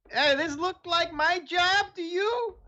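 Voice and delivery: a squeaky grumbling guard. Acted. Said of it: "hard to him to do this voice".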